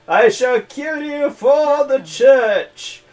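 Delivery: high, slow, booming crusader cry; zealous battle cry. Retold or imitated. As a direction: bellow it like a holy warrior. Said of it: "and I was like".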